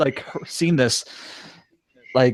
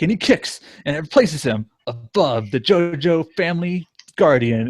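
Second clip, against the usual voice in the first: cheesy narrator voice; 2 semitones higher than usual. Retold or imitated. Fan quoting the narrator's play-by-play, cheesy voice. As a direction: proclaim it like a hammy anime narrator. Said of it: "narrating kind of this cheesy voice".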